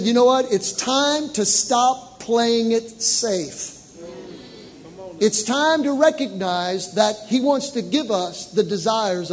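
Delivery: loud, fervent sermon voice; full-force preaching. Real, not acted. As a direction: preach it out to the congregation.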